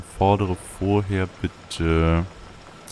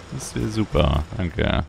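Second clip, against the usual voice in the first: usual speaking voice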